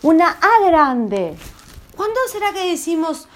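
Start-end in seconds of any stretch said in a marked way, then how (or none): 0.0-1.4 slow, drawn-out amazed A; open, astonished vowel; big surprised ah. Shown as a demonstration. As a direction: stretch the A wide in wonder. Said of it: "vamos a prestar atención a lo que Alicia dice".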